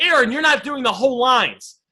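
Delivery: ordinary talk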